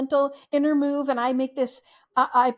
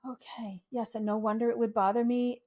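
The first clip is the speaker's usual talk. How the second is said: soft, quiet self-acknowledgment; gentle noticing; 2 semitones lower, 6 dB quieter than usual. Shown as a demonstration. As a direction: notice it kindly, under your breath. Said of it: "just the little gesture".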